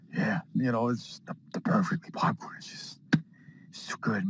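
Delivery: soft, breath-heavy dreamy murmur; hushed and spaced out; dazed murmur. Acted. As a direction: drift off, lost in the memory. Dazed Batman in Arkham Asylum.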